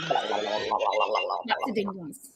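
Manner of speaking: slow, low, drawn-out echo; deep slow repeat. Acted. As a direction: drop very low and drag it out.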